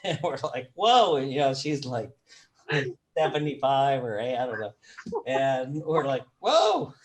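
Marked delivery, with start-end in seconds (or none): 0.8-1.2 high, loud retold "whoa"; mock astonishment. Retold shock at wife's confession. 6.4-6.9 very high, loud whoop of shock; hammed-up stunned reaction, pitched way up; mock astonishment. Retold shock, laughing after it.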